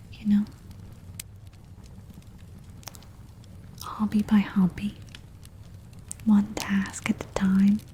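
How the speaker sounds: gentle comforting whisper; reassuring whisper. Acted. Reassuring talk to viewer.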